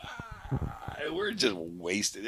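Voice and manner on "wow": long, high, hushed "waah"; soft high-pitched wail of awe; awed "wow". Retold or imitated. Recalling the stadium flyover, high soft drawn-out wow. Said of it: "it was like".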